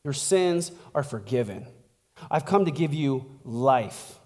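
lightly acted tender reassurance; Jesus. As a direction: offer forgiveness softly, with pauses. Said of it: "The way Jesus talks, very different".

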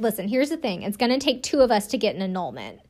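measured, even retold plea; calm. Podcaster voicing a groom reasoning with his bride, calmly. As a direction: imitate someone patiently reasoning. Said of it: "being very calm".

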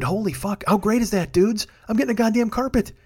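high, gleeful crowing; elated cheer. Real, not acted. Telling the dudes about the carpet, crowing high. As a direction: crow it to the dudes. Celebrating to listeners.

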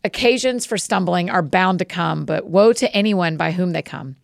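calm, measured Bible reading; scripture reading. Acted. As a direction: read the Gospel aloud steadily, with reverence. Reads scripture aloud.

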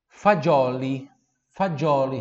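fagioli said loud, slow, with a clear dj sound; loud model word. Shown as a demonstration. Teacher models fagioli loudly for the class. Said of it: "Repita, fagioli".

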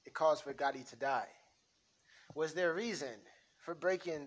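lightly voiced mobster, firm then friendly; a hint of a wiseguy coaching a kid; mob boss scene. Mobster to his crew and a boy, lightly tough.

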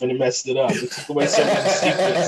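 talking through loud laughter; laughing. Real, not acted. Joking with co-hosts about visible movie strings, laughing. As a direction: crack up while telling it, loud.

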